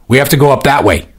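shout. A narrator's reading. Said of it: "Sea Captain shouted at her".

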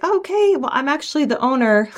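sweet high reveal, I'm the owner; mock surprised owner. Therapist telling a rude patient she owns the clinic, mock sweet. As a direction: act politely surprised, then drop the news.

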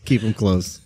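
wheezing with laughter; laugh-wheezed words; wheezy voice. Real, not acted. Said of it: "I'm so sorry I'm wheezing".

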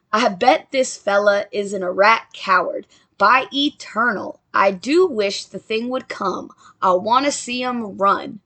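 put-on Andrew Jackson's line in a country British accent; a folksy country British accent for the general. Jackson boasting to his men, in a country British accent. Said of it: "a country British style accent".

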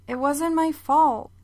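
put-on high, slow child's protest; a daughter insisting to her mom, high and slow; defensive girl. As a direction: insist on innocence like a little girl.

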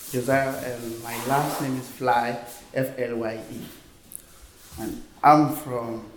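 French West African accent in English; ivorian accent. Real, not acted. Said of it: "I don't know English very well".

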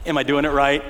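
eager unsure question. Retold or imitated. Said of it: "You know, like this".

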